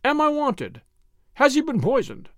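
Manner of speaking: a doctor bursting through the window, crying out high; alarmed cry. A narrator's reading. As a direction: call out high in sudden alarm.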